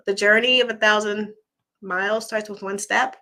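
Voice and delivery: saying it through hiccups; hiccuping mid-sentence. Real, not acted. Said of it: "Oh, I said that with hic-, hiccuping".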